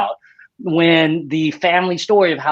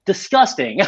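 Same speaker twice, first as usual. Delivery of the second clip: mock disgust; 5 semitones higher than usual. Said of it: "I wigged out".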